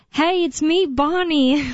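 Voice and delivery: imagined scam caller. Pretend. Scammer calling your parents as you, mock familiar greeting. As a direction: pretend to greet the parents as their kid, lifted pitch. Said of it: "maybe somebody calls your parents saying".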